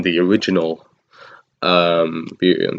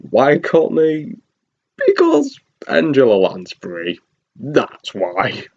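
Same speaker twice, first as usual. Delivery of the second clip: sarcastic; 5 semitones higher, slower than usual. Real, not acted. Mocking the casting choice.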